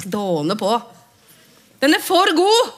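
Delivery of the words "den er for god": high, loud and thrilled again; delighted exclamation. Acted. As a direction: cry it out in joy. Gjentar med jubel. (begeistret utrop, høyt og lyst)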